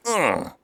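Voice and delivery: high, loud sword-swing grunt; effort grunt. Retold or imitated. Boy swinging a sword at a dragon, effort grunt.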